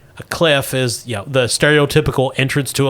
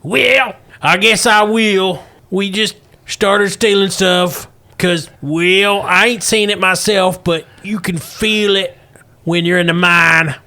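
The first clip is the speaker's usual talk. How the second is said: put-on old prospector; 4 semitones higher than usual. Russell reveals the Great One.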